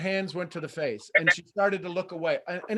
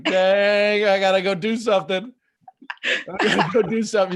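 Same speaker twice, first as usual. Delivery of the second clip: louder, hammed-up panic at having to leave; flustered exclamation; 3 semitones higher, 7 dB louder than usual. Coach mimicking a caller who suddenly has to leave, hammed-up flustered. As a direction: blurt it out like someone suddenly in a rush. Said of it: "now all of a sudden it's like".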